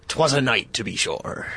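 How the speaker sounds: growly hammed-up pirate; lightly voiced pirate line. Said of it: "Like Talk Like a Pirate Day".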